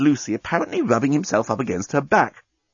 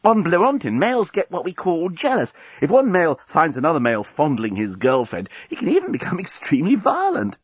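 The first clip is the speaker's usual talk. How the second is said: alien man voice; 6 semitones higher than usual. Acted.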